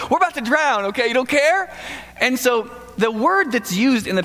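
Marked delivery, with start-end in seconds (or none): 0.1-1.7 mock panic. Disciples panic in storm.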